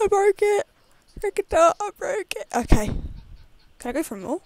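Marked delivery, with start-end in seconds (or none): 0.1-2.5 higher, louder gleeful shout of triumph; excited yell. Acted. Voicing the game character breaking a box, excited yell. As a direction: crow it out like you smashed it.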